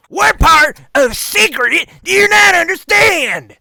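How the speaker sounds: very high, very loud, shrill shout. Voicing an old man leaning to a player's ear: shouting into an ear. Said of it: "leans over into your ear and shouts".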